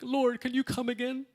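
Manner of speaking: laughing mock request to the Lord; forgetful believer. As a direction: tease the congregation with a giggling plea. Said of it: "we'll still be like".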